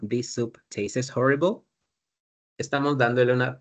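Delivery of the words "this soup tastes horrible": This soup tastes horrible said slowly; slow quote. Shown as a demonstration. Teacher quoting the example sentence slowly. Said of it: "cuando yo digo".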